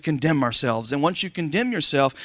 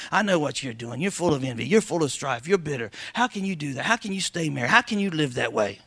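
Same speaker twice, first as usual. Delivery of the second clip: accuser's voice; 2 semitones lower, 3 dB quieter than usual. Retold or imitated. Preacher voicing the accuser.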